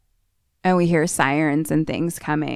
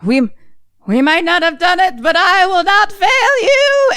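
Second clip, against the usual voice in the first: fierce vow; 13 semitones higher, 5 dB louder than usual. Retold or imitated. Aunt vowing loyalty before charging with an axe, high solemn shout. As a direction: swear it like a fanatic before a charge.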